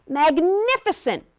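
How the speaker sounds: high, loud, drawn-out praise; admiring. A narrator's reading. Princess eggs on the dragon, loudly admiring. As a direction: gush slowly over the feat.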